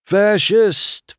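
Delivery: high, loud one-word accusation; called-out insult. A narrator's reading. Townsperson accusing McQueen in court, calling out. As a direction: hurl the word across the room. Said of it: "Fillmore called".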